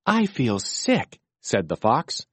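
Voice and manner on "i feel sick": slow, queasy, higher voice; sick fox voice. Acted. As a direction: sound like your stomach hurts. Fox says he feels sick.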